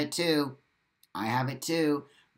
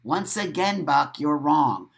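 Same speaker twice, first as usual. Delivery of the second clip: mock scolding; 4 dB louder than usual. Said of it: "That just shuts the conversation down".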